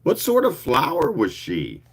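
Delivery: a hint of a clear contralto asking; clear sweet contralto. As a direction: ask it as the sweet-voiced newcomer at the door. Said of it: "a clear, sweet contralto voice asked".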